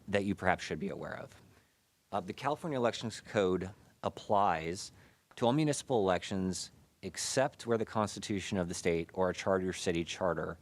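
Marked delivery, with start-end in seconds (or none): 2.1-10.6 muffled behind a face mask; speaking through a mask. Real, not acted. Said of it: "I do apologize for the face mask".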